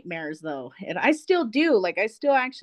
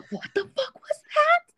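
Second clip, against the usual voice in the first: startled. Retold or imitated. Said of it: "And I was like".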